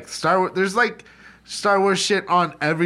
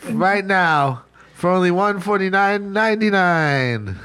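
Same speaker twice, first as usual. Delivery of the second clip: hammed-up late night ad pitch; infomercial pitch. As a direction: sell it like a cheesy TV ad. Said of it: "back from our sponsor".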